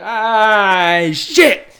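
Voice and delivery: loud, high wail of a curse; put-on drifter's drawn-out yell; crackhead's exact voice. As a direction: howl it like a wasted man getting caught. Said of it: "that's his exact voice, by the way".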